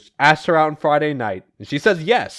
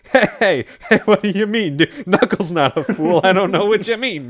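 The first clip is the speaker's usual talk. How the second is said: hammed-up cover-up; 5 semitones higher, 3 dB louder than usual. Espio covering up as Knuckles approaches.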